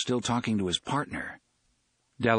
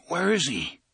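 thick voice; 7 semitones higher than usual. Acted. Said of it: "O'Meara asked thickly".

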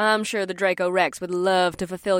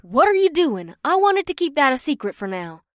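annoyed; 5 semitones higher than usual. Acted. Batari angry at Ashanti.

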